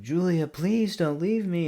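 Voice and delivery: high-pitched mock wail; imitated screaming plea. Reviewer mimicking Anise pleading with Julia, screaming. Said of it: "Anise start screaming".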